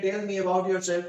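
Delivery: very slow, word-by-word English example; slow careful reading. Shown as a demonstration. Teacher reading an example to students, very slow and deliberate. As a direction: dictate each word slowly for learners. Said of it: "इसी sentence को".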